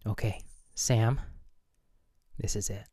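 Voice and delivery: soft intimate whisper; right in your ear. Pretend. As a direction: lean in close and hush. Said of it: "I'm gonna whisper in your ear".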